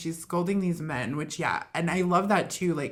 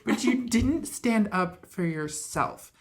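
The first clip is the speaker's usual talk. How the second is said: louder, higher scolding, slowing at the end; scolding rebuke; 4 semitones higher, 5 dB louder than usual. Retold or imitated. Wonder Woman scolding Steve, raised and pointed. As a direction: scold him for his weakness. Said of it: "She's like".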